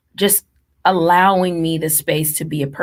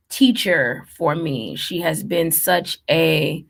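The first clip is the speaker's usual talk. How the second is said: fighting tears while thanking her mom; holding back tears. Real, not acted. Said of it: "I may get emotional".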